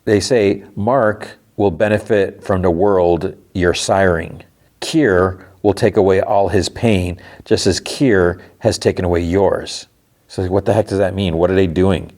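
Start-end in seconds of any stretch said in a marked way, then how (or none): 0.8-9.9 slow, measured careful reply; retold guarded answer, deliberately paced. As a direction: choose each phrase carefully, slightly slowed. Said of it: "they answer kind of carefully".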